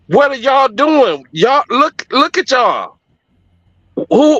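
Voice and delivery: high, urgent rising pleas; pleading church women. Retold or imitated. Women on stage pleading with homeless men, high and urgent. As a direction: scold and plead like a woman at the mic. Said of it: "And they was like".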